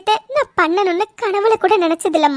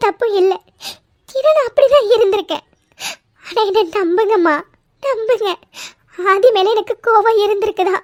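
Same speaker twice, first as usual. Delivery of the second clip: tearful pleading. Acted. Savitri swears her innocence to mother and sister-in-law, tearful pleading. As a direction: beg them to believe her, crying. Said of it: "ஏன் சாவித்ரி அலற?".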